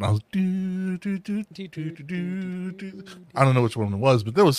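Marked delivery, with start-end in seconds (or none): 0.0-3.0 dazed humming. Retold or imitated. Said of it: "I was on".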